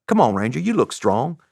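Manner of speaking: light put-on Southern lilt; mildly imitated Southern gent; Southern accent. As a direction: coax with a hint of Southern accent. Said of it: "I don't have a very good Southern accent".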